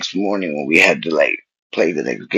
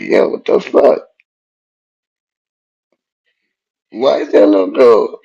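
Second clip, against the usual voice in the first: startled whisper; 5 semitones higher, 5 dB louder than usual. Retold or imitated. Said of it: "I'm like".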